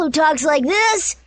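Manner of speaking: put-on bold brash girl voice; daredevil voice. Shown as a demonstration. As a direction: say it like a fearless daredevil. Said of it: "And Little Miss Daredevil".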